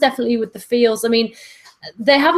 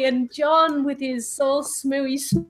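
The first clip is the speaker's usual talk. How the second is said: dropping out like a bad connection; corrupted glitchy audio; 3 semitones higher, 4 dB quieter, slower than usual. Real, not acted. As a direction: voice breaking up mid-word. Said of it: "your audio is cutting out again".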